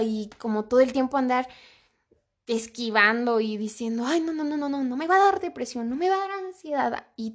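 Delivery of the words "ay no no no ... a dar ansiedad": higher and quicker, brushing the fear away; a nervous, hurried mock denial to herself; mock panicky denial. Self-quote denying depression, anxiety.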